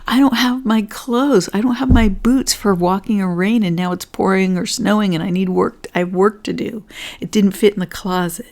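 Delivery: a touch of play-acted anger; mock frustrated rant. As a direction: vent like someone robbed of their closet. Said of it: "So now I'm getting angry, or I'm getting frustrated".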